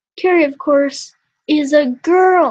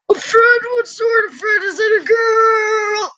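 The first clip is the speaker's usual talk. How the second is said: father's voice; 8 semitones higher, 4 dB louder than usual. Acted. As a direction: press the son eagerly, as the father. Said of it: "I got it".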